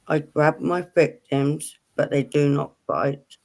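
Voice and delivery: slow, deliberate riddle reading. Real, not acted. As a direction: read it out slowly, phrase by phrase with pauses. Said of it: "read it all, so then it makes it easier".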